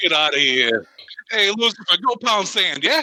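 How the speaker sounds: bad, high, put-on New York accent. Joking on a podcast about Lucifer's fall, God in a New York accent. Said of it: "Sorry to all our New York listeners".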